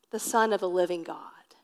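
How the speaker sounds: awed whisper. Acted. Peter confesses to Jesus in a whisper. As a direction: breathe it out like a revelation. Peter blurts out his answer.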